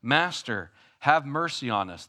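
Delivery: mild mock plea; crying out for mercy. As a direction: call to Jesus from a distance, begging. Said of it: "they cry out".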